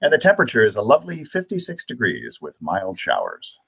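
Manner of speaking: measured broadcast announcer, dropping at phrase ends; narration voice. Shown as a demonstration. Host giving time and temperature to viewers, in a narration voice. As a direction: read time and weather like a radio announcer. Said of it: "My narration voice is one of choice".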